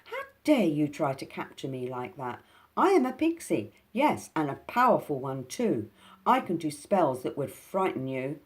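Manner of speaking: loud, high pixie threat; threatening. Acted. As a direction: make him tremble with threats.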